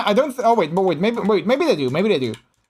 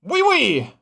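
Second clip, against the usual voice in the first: excited gushing; 9 semitones higher than usual. Real, not acted. Gushing over French voice.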